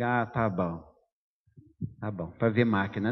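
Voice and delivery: a dry, knowing "sure, sure"; skeptical aside. Retold or imitated. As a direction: doubt his excuse under your breath. Inner skeptical thought about excuse.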